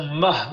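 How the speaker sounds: "ma" with a little air flowing after the A; flux d'air. Shown as a demonstration. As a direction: let air pass through an open "ma". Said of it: "comme un petit flux d'air qui passe". (« ma » ouvert, avec un souffle)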